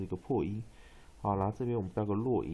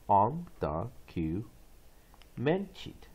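slow syllables; 2 semitones lower, slower than usual. Shown as a demonstration. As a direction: sound out "On the Q", pause, then "man teeth". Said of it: "one more time".

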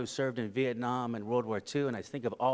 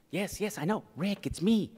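eager reintroduction; 8 semitones higher than usual. Retold or imitated. Old friend insists to Rick she is the astronaut, growing excited. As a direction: insist brightly, climbing with each phrase.

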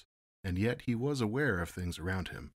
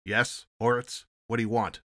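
querulous; 4 semitones higher, 8 dB louder than usual. A narrator's reading. Captain answers his security agent, querulous and annoyed. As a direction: whine it out, put upon and irritated. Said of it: "A querulous male voice spoke".

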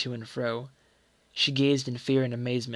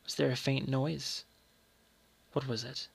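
hushed narration; 7 dB quieter than usual. A narrator's reading. Mother listening at door, hushed.

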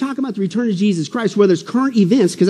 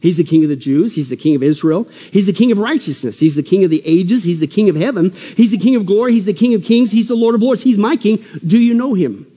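rhythmic preaching litany; 2 semitones higher than usual. Real, not acted. Preacher reciting titles of his king, rhythmic and building. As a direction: roll out each title with growing conviction.

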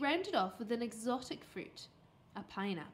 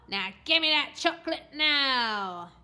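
loud demand with a long-drawn NOW; loud, whining order stretched at the end; bratty demand; 2 semitones higher, 9 dB louder, slower than usual. A narrator's reading. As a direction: demand it like a spoilt child. Boy demands his reward.

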